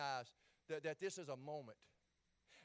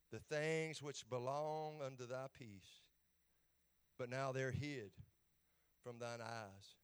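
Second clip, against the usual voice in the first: sorrowful reading; 4 semitones lower, slower than usual. Acted. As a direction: read it as if grieving over the city. Reads Jesus weeping over city.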